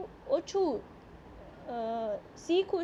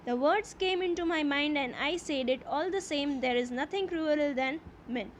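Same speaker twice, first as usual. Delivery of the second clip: slow, deliberate reading aloud of the English text; slow story reading; much slower than usual. A narrator's reading. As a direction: read each phrase slowly, as a teacher before translating. (ધીમે ધીમે વાર્તાનું વાંચન)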